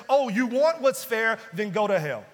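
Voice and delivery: loud, forceful divine rebuke; God loudly rebuking those who demand fairness; stern God. Acted. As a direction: thunder back the challenge. God answering the complainer.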